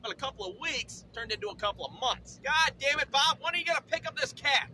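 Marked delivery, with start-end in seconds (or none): 2.4-4.7 mild acted anger, raised pitch; lightly hammed-up exasperation, loud at first; annoyed demand. Parent chasing up cat's owner, acted annoyance.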